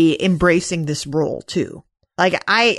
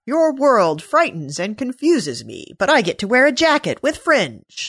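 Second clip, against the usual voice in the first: unfrozen caveman Romulan; 4 semitones higher than usual. Pretend. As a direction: play a baffled caveman pleading his case, half-hearted. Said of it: "the unfrozen caveman Romulan".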